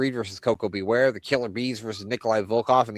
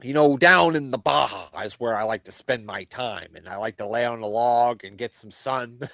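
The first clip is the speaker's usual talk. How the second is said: Jesse Ventura. Retold or imitated. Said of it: "two not so good Jesse Ventura impressions".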